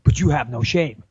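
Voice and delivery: put-on American audition voice; British speaker trying an American accent. Shown as a demonstration. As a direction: act the line as an American. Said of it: "your line in the American accent".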